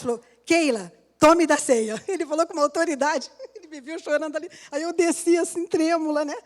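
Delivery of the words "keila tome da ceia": slow, firm pastor's command, a bit louder; lightly voiced pastor giving an order; with authority. Pastor calling the crying woman to communion, firm and slow. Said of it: "com autoridade".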